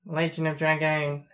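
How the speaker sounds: a light, jokey ocker Australian accent; playful mock Australian accent showing it off to a friend; stereotype Australian accent. Shown as a demonstration. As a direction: lightly put on a cartoon Aussie accent, crikey and all. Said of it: "I can speak in an Australian accent if you want".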